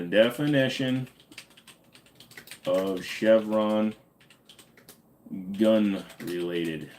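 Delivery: definition of Chevron spelled out slowly; drawn-out reading, every word given its time; slow, deliberate read. Shown as a demonstration. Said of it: "I will give you the actual definition".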